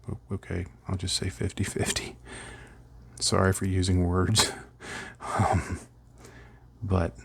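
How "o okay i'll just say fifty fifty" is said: meek. Retold or imitated. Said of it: "And I was like".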